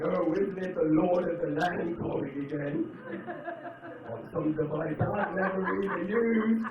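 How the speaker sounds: slow, grand mock-medieval proclamation; light, slow Game of Thrones style mock announcement. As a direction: announce the landlord like a herald at court. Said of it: "how did I come up with that voice".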